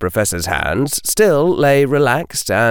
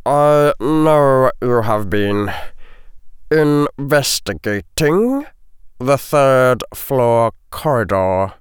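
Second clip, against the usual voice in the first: slow, deliberate character voice; accusing potions master; 5 semitones higher, slower than usual. A narrator's reading. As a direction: lay out the accusation piece by piece. Potions master reveals what he knows.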